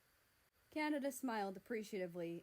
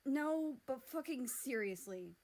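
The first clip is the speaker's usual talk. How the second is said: exasperated hiss; 4 semitones higher, 5 dB louder than usual. Acted. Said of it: "Mexico hissed".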